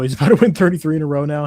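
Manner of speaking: rushed, laughing through the joke; fast, giggling sarcasm; quick mocking chuckle. Real, not acted. Joking about the losing streak.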